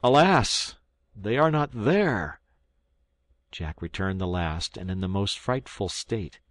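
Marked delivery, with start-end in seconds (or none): 0.0-2.4 loud, high anguished exclamation, slowing; higher and louder cry of loss, drawn out; despairing cry. Acted. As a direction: wail it out in despair. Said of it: "I cried".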